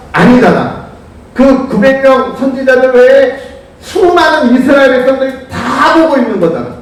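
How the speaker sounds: ordinary talk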